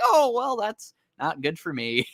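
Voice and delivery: high "oh, well", then a slow deflated drop; hammed-up villain realizing he's beaten; mock dismay. Eggman realizing he's been tricked, in mock dismay. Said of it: "he's like".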